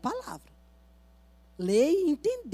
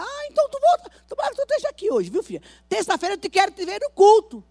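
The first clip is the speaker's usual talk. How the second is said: cheerful invitation; 11 semitones higher, 12 dB louder than usual. Retold or imitated.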